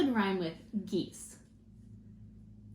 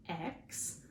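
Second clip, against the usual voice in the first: split into syllables; 4 semitones lower, 10 dB quieter than usual. Shown as a demonstration. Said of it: "Let's try exploding".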